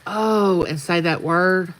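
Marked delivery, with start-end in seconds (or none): 0.1-0.6 drawn-out, higher mock groan of pain; retold grumble. Telling viewers about standing up in pain, retold grumble. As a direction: imitate your own grumbling oh. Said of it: "I'll grumble and say".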